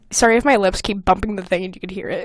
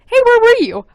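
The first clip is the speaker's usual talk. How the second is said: mock greeting; 12 semitones higher, 6 dB louder than usual. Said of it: "I never go up to my friends".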